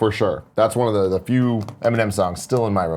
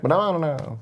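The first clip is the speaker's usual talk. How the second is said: higher, softer mock whine; whiny rapper; 4 semitones higher, 5 dB quieter than usual. Host finishing his impression of a rapper, whiny and high. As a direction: trail off in an imitated rapper whine. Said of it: "'cause he had the whiny".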